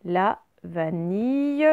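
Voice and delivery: "vanille" drawn out, ending in a y glide; slow, careful "vanille" with a long ee-y; ye sound. Shown as a demonstration. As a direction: say "vanille" slowly as va-niy. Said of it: "c'est bien le son ye".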